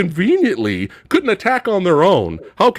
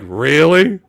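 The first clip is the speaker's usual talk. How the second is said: indignant repeat; 2 semitones lower, 5 dB louder, much slower than usual. Retold or imitated. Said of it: "She was like".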